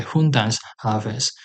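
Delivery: slow, careful "Hundans haves"; teaching demo, slow; slow Gothic demo. Shown as a demonstration. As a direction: sound out each word of "Hundans haves". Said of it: "you can also say".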